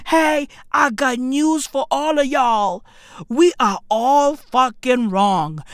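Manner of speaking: ordinary talk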